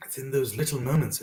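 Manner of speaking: halting, pausing to collect yourself; moved by the memory, with long breaks; getting emotional. Real, not acted. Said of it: "this is so emotional when I remember".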